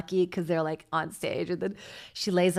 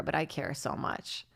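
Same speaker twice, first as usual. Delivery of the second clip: quiet; 4 semitones lower, 8 dB quieter than usual. Real, not acted. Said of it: "repeated softly".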